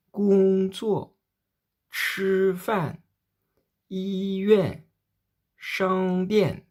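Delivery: Gong Zuo, Chi Fan, Yi Yuan, Shang Dian : syllabe haute et plate puis chute brusque et forte; premier et quatrième ton modèle. Shown as a demonstration. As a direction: tomber d'un coup sur la seconde syllabe. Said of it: "Deuxième fois". (modèle premier ton puis quatrième ton qui chute d'un coup)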